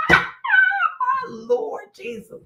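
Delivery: slow, drawn-out laughing my Lord; wheezing Lord Jesus; laughing disbelief. Real, not acted. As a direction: groan through the laughter. Laughing exclamation.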